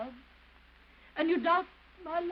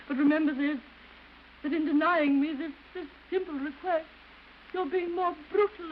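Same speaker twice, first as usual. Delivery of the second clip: louder, pressing rebuke; firm warning; 4 dB louder than usual. Acted. Wife warning husband who refuses her, firm and louder. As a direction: insist on being heard.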